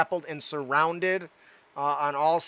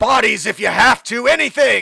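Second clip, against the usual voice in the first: huge rough booming bellow, very loud; 6 semitones higher, 10 dB louder than usual. Answering what to fill the last entrance, the well, with: big booming voice. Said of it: "with a big, booming voice".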